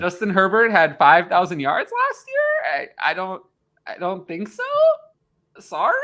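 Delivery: slow, halting, questioning disagreement breaking into laughter; mock-apologetic rebuttal. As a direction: contradict them as if sheepishly unsure. Mock answer to public opinion.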